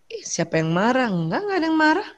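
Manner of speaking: soft, coy mock denial; softening denial. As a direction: play a wife starting to relent. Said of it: "Tapi sudah mulai le-, lentur ya".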